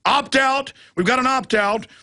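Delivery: high-pitched bellowed call-out; imitated yell. Airport screener alerting colleagues to an opt-out, imitated yell. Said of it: "started yelling".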